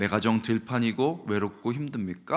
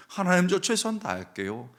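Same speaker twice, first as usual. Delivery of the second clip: tearful vow; 10 semitones higher, 4 dB louder than usual. Retold or imitated. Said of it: "하고 엉엉 울었습니다".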